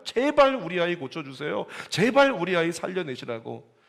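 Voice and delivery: pleading parent. Retold or imitated. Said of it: "의사 붙잡고 흔들잖아요".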